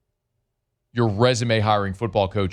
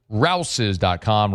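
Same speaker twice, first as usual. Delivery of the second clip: slow ad tagline; much slower than usual. Acted. Ad read tagline.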